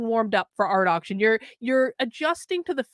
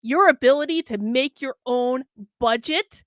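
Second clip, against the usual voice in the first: sarcastic. Acted. Mocking budgeting advice.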